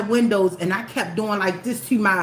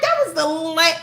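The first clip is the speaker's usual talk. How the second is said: retold outrage; 8 semitones higher than usual. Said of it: "I'm like".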